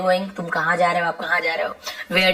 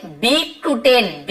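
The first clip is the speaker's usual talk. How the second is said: slow dictation; much slower than usual. Shown as a demonstration. Teacher reading the lesson sentence to students, slow and deliberate. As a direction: read it out slowly so the class can follow.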